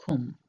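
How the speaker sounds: "cum" with a short U like brook; teacher models "cum" for learners; demonstrated word. Shown as a demonstration. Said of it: "Then we come to the short U".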